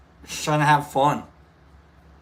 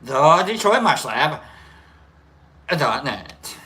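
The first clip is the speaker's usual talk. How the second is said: dramatic; 2 semitones higher, 5 dB louder, slower than usual. Shown as a demonstration. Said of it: "So dramatic".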